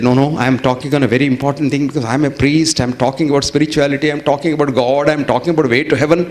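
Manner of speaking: emotional rush. Retold or imitated. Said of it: "he became emotional".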